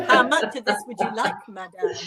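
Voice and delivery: laughing, playful waiter offer; mock waiter. Waiter offering pepper to a madame, mock-attentive. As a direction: play a waiter with the pepper mill, amused.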